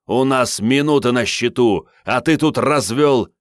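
angry scolding. A narrator's reading. Chief scolds Andrey.

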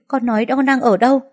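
a frightened mother begging for an answer; anxious mother demanding where her child is; frantic demand. A narrator's reading. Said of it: "giọng mẹ hỏi dồn dập".

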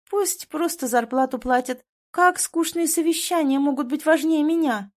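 high, pouty and pleading; spoiled girlfriend. A narrator's reading. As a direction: act hurt and spoiled.

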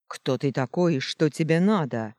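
loud ringing call; booming shout. Acted. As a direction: call out boldly across the square. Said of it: "зычно крикнул Гелиодор". (зычный крик)

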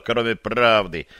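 usual speaking voice

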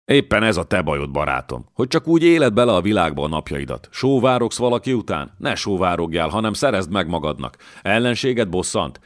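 lightly voiced lord, bold and coaxing; a light touch of a swaggering nobleman recruiting; coaxing a strong fighter to join, lightly voiced; scheming young lord. Miklós voiced in reading.

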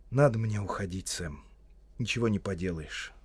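understated resigned farewell; sighing resignation. Acted. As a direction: let it sink away with a sigh. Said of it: "вздохнул Фродо".

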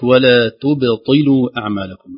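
تبطلوا with thin ت and ب before a heavy ط; slow Tajweed reading of تبطلوا; slow careful recitation. Shown as a demonstration. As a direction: recite ولا تبطلوا slowly, light ت and ب. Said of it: "قريب من ذلك".

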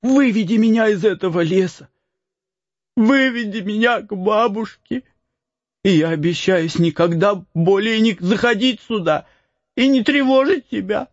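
high desperate pleading; begging on knees. Acted. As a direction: plead to be led home. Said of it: "став перед мальчиком на колени".

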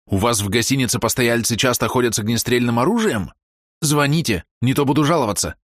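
rising indignant pitch. Acted. Hero argues with desk clerk.

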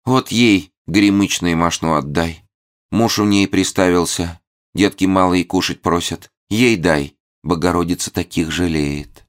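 high tinkling little voice; lightly voiced tiny sprite; crystal little voice. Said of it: "хрустальный голосок Мими".

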